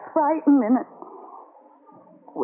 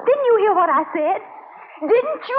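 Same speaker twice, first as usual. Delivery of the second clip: rising higher, irritated; indignant snap; 6 semitones higher than usual. Acted. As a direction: throw the question back at him. Taffy snaps back at Joe.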